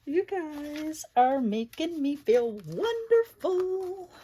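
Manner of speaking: laughing, moved. Real, not acted. Overwhelmed by kind viewers.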